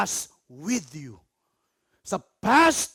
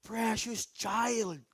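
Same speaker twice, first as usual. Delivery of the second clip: tender God voice; much slower than usual. Acted. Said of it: "That's why He whisper".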